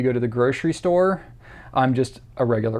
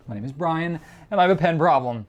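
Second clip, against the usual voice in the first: higher-pitched, half-laughing admission; mock confession; 4 semitones higher than usual. Pen collector to his viewers, jokingly confessing. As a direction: confess it like a support-group introduction. Mock support-group introduction.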